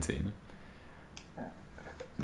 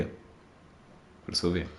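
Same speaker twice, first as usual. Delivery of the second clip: "sauver" whispered slowly and softly; 2 semitones lower, 13 dB quieter, much slower than usual. Real, not acted. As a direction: breathe "Faut le sauver" slow, no voice.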